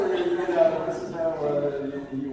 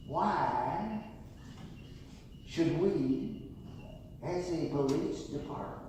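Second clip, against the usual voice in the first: put-on slow, drawn-out West Texas accent; Don Daniel's West Texas accent; 5 dB quieter, slower than usual. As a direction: imitate a stern West Texas police chief, slowly. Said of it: "he says in this West Texas accent".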